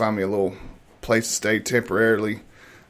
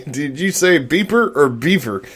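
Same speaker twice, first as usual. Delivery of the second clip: laughing tease; 4 semitones higher, 3 dB louder than usual. Real, not acted.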